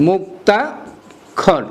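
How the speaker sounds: drawn-out word. Shown as a demonstration. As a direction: stretch the word out very slowly. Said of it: "drawn-out repeat for pupils". (টেনে টেনে বলা)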